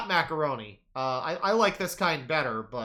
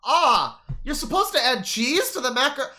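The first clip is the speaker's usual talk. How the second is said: mocking old lady voice; 8 semitones higher, 5 dB louder than usual. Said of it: "just out here like".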